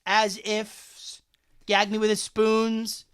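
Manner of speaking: put-on Valley Girl. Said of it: "the eighties Valley Girl kind of thing".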